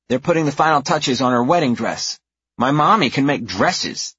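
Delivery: put-on high child voice; proud little girl. A narrator's reading. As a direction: boast like a small kid. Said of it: "the little one says".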